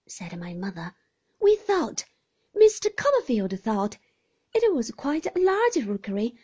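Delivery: put-on timid young mother. Young mother explains the rookery to the aunt, timid and high. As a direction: answer nervously, eager to please. Mother answers Miss Betty.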